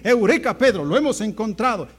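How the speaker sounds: lightly acted urgent good news; excited announcement. Andrés tells Pedro of the Messiah, acted excitement. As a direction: punch the exclamation and press on eagerly.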